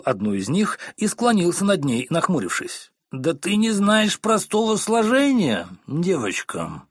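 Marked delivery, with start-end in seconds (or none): 3.1-6.8 slow, much higher, louder growl. Acted. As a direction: roar down at her. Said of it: "прорычал мистер Корнер". (медленный громкий рык)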